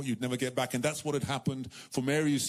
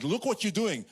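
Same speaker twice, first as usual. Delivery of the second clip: scornful men; 9 semitones higher, 3 dB louder than usual. Retold or imitated. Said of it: "the men are like".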